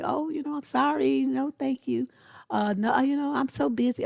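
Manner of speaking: high-pitched, mock-apologetic excuse-making. Women quick to say sorry and make excuses, high apologetic voice.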